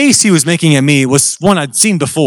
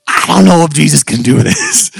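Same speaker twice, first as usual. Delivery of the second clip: nervous. Retold or imitated. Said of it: "I was nervous, genuinely".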